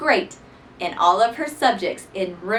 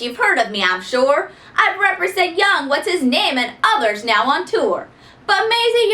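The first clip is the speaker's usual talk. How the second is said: louder, slick salesman pitch; slick agent. Acted. Finagle the agent pitches a contract to Maisie, slick and louder. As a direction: sweet-talk her like a wheeler-dealer. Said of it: "sometimes loud, sometimes slick".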